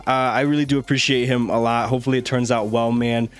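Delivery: hoarse, strained sick voice; talking through a failing voice; voice giving out. Real, not acted. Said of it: "My voice is giving out".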